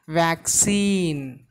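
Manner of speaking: "Vaccine" said deliberately, second syllable drawn out; demonstrated pronunciation. Shown as a demonstration. Teacher showing how the word is pronounced, deliberate "Vaccine". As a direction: model "Vaccine" clearly for learners. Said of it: "The pronunciation of the word is".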